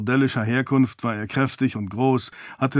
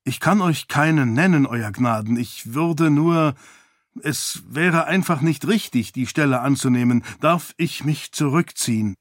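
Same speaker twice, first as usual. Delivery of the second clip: higher-pitched, hesitant refusal; troubled priest; 3 semitones higher than usual. Acted. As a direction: break off, then excuse yourself to your lord. Priest declines, asks to leave.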